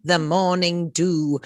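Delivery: a slow, posh-leaning British accent on the morning dew. Shown as a demonstration. Host on a podcast unexpectedly slips into a British accent. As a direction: say the morning dew like a Brit, drawn out. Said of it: "compelled to say that in a British accent".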